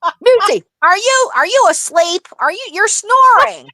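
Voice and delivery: high, puzzled voice, asking if she's asleep; host asking the snoring guest whether she fell asleep, in a high puzzled voice; quoting Barb. Retold or imitated. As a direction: pitch up high as a confused host checking on a guest. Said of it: "and she goes".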